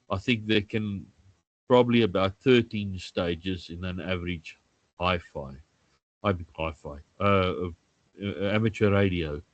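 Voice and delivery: stuffy, blocked nose from flu. Real, not acted. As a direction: speak through a blocked nose. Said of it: "I'm a bit fluish, so my nose is, uh, blocked".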